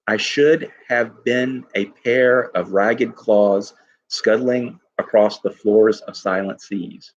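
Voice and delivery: slow, deliberate recitation; slow poem reading. Shown as a demonstration. Teacher repeats the line so students feel the sounds, slow recitation. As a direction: say it slowly so they feel every sound. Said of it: "what do you feel when you say that phrase".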